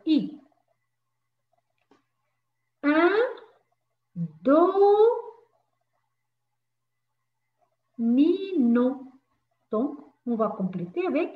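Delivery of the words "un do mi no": "Un, do, mi, no" said as separate loud syllables. Shown as a demonstration. Teacher counting out syllables for young pupils, each one loud. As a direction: tap out each syllable of "domino". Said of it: "teacher segments syllables for pupils".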